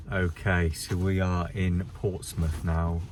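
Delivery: slow stiff robot presenter voice; stiff, slow, like a robot reading. Real, not acted. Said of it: "You sound like a fucking robot".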